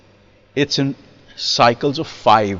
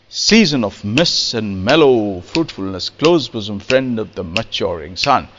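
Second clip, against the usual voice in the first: poetry recitation; 3 semitones lower than usual. Shown as a demonstration. Recites a Romantic verse example.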